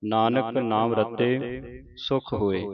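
slow reading, resting after ਰਤੇ; pause after ਰਤੇ. Shown as a demonstration. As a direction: run up to ਰਤੇ, then pause. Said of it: "ਰਤੇ ਦੇ ਆਣ ਕੇ ਵਿਸਰਾਮ". (ਰਤੇ ਤੇ ਵਿਸਰਾਮ)

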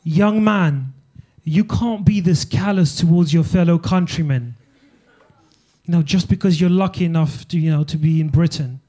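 a hint of a disapproving elder; elderly scolding lady. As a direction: imitate an old woman's stern telling-off. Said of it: "an eighty-year-old lady cornered me and she's like".

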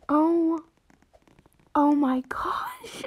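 slow, awed whisper; breathless awed whisper. Real, not acted. Player amazed by a free horse, awed whisper. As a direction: breathe it out in shock.

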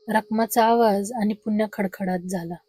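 usual speaking voice

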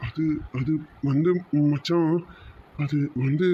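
slow, halting false starts; haltingly evasive; hesitant stalling. Acted. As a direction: stall for an answer, unsure how to begin. Cornered friend stalls for an answer.

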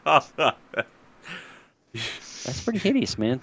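a put-on Norwegian accent, dragged out slowly; a lightly Norwegian-accented remark, said very slowly. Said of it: "You sound like a Norwegian".

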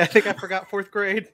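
high-pitched mock dismay; mock distress. Patient after a brain-scrambling nose test, high mock dismay. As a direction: pitch it up, playing dazed victim. Acted reaction to deep nose swab.

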